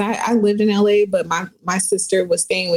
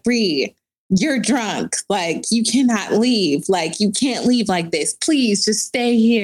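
lightly voiced begging; slower than usual. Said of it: "Like, literally begging me".

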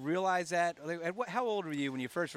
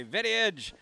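lightly imitated greeting, pitched up; slightly raised mock hail; nickname call imitating dad; 4 semitones higher than usual. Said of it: "he's imitating you and I'm imi".

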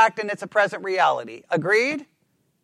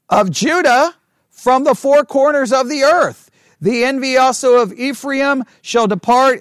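raised, emphatic Bible reading; scripture reading; 3 semitones higher than usual. Acted. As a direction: proclaim the verse phrase by phrase. Reads scripture aloud to the class.

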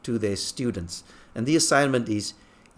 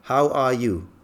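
mock shout; 2 semitones higher, 4 dB louder, much slower than usual. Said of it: "he shouted as loudly as he can".

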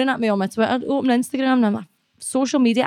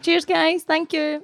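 higher-pitched cheery thanks to fans; shout-out thanks; 8 semitones higher, much slower than usual. Pretend. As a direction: say a quick thanks to viewers on request. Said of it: "give them a wee wave and say thanks".

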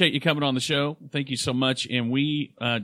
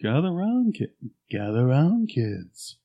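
creepy ad voice. Acted. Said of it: "as the Silver Shamrock guy".

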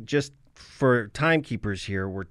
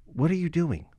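incredulous; 3 semitones higher than usual. Retold or imitated. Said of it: "it sounds like he's like".

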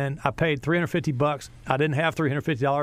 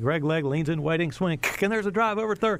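mock play-by-play; 3 semitones higher than usual. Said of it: "this fake play-by-play".

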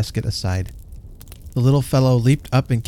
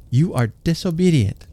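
rising anger; 6 semitones higher than usual. A narrator's reading. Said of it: "a rising note of anger in her voice".

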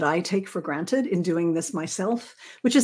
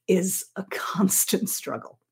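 laughing whisper. Real, not acted. Admits writing is hard, laughing.

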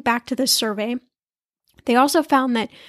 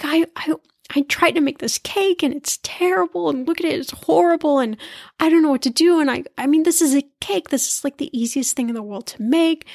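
higher, half-mock tearful wail over a ruined cake; retelling to viewers how she cried over her failed birthday cake, mock tearful and higher; imitating her tearful self; 4 semitones higher than usual. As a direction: replay the crying fit, pitched up and lightly hammed. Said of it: "I just was crying in front of this cake".

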